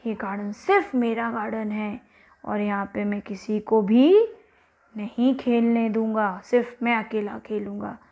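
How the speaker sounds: lightly voiced stern giant, firmer midway; selfish giant. Giant banning everyone from his garden, mildly stern. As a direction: lay down the rule as a giant. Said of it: "अब वो giant क्या बोला".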